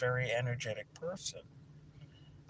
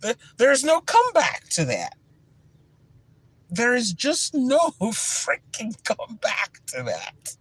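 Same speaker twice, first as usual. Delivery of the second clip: words pushed out through loud laughter, higher and slower; laughing; 8 semitones higher, 12 dB louder, slower than usual. Real, not acted. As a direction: laugh while saying it, delighted. Laughing over her own comeback.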